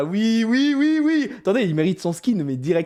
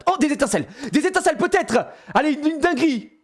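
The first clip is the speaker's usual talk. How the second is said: excited laughing; 8 semitones higher than usual. Real, not acted. Sparkles appear, laughing.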